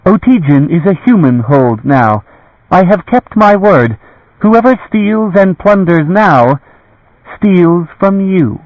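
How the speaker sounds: high lady's voice slowing to a measured warning; ruler's solemn warning, slowing down; slow stern warning. A narrator's reading. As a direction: let each word land as a threat.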